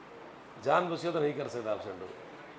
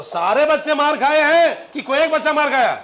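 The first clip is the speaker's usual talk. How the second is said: much higher, loud question through laughter; laughing question; 10 semitones higher, 12 dB louder than usual. Real, not acted. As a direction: ask while cracking up. Teacher laughs while asking class.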